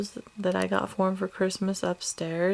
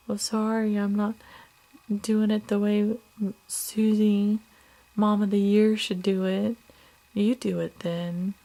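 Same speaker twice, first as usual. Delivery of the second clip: louder, biting mock sarcasm; imitating husband's sarcastic retort; 3 semitones higher, 4 dB louder than usual. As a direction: throw it back at her, defensive and snide. Husband's defensive retort, retold.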